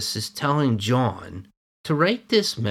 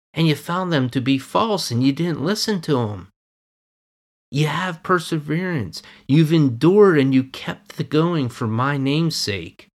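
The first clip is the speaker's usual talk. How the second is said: higher, louder fervent preaching; rising preaching; 5 semitones higher, 5 dB louder than usual. Acted. Preacher stirring the congregation over the church's good deeds, fervent. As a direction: build the praise with fervor. Preacher building up scripture paraphrase.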